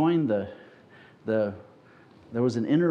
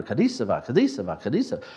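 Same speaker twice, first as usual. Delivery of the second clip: chanting a strange phrase over and over; speaking in tongues; faster than usual. Retold or imitated. Recalling how he first spoke in tongues, chanting. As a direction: repeat the same made-up word like a chant. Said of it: "this funny language".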